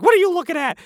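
high, loud mock snarl at a nosy onlooker; imitating a shrill neighbor, loud; snappy neighbor. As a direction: bark it like a cranky neighbor.

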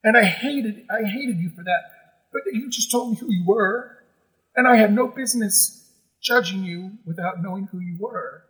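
getting emotional. Real, not acted. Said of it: "I'm getting emotional now".

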